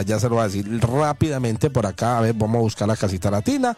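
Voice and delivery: upbeat restaurant ad read; radio ad read. Acted. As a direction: sell it like a live radio spot. Host reads restaurant ad.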